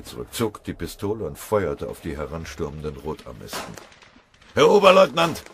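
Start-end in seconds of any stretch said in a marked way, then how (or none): 4.5-5.4 high, very loud cry of alarm; horrified shriek. A narrator's reading. Corporal screaming to his wounded lieutenant, horrified shriek. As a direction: scream out to your officer in horror. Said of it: "kreischte der obergefreite Schubbe entsetzt".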